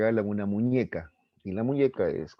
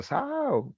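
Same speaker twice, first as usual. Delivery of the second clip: mock shout. Other boys jeer at the compliment, high mock shout. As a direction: squeal it like a jeering onlooker. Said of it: "ya comenzarían a gritar".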